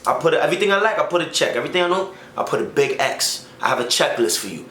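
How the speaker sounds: imitating a Dominican mom, rising phrase ends; Dominican accent. Girlfriend's mom setting checklist rules, in Dominican accent. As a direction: put on a Dominican accent, lifting each condition. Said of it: "her mom's mad Dominican, so she got that accent".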